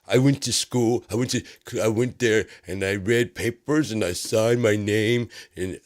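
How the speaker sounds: lightly voiced schoolkid reporting his day; little kid voice. Mocking the president as a child telling about school, lightly childish. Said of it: "he sounds like, a little kid".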